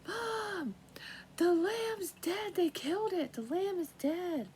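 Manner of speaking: put-on high, loud, slow child's cry of alarm; mimicking a frightened daughter yelling down; daughter screaming. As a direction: wail it down from the window like a scared kid. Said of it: "she's screaming down, going".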